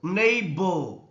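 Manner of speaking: neighbor with NEI drawn out and firm; stress on first syllable. Shown as a demonstration. Teacher showing stressed syllables to class, stress on NEI in neighbor. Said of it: "clove are the stressed".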